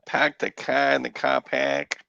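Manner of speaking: playful mock Massachusetts accent; imitated New England accent, R's dropped. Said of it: "they drop their R's".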